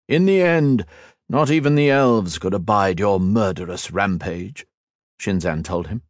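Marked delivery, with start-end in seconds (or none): 0.1-4.7 sneering villain. Acted. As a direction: savour every cold word. Shinzan accuses Ethan.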